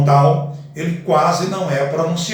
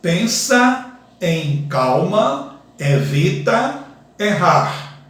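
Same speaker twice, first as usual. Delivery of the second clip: teacher reading a verse syllable by syllable; slow syllable-by-syllable; slower than usual. Shown as a demonstration. Teacher to class, reading the verse slowly by syllables. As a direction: read slowly, each syllable apart. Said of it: "Se eu pronunciar ele separadamente".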